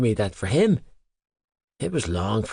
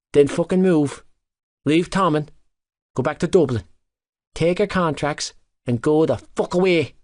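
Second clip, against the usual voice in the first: snarled; 5 semitones higher than usual. Acted. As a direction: snarl it at him. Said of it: "he snarled".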